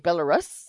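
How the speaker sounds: questioning "Belarus?" with a short "russ" ending, like rusks; mocked pronunciation. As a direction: query "Belarus" as Bela-RUSS, tune rising. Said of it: "it's not rusks".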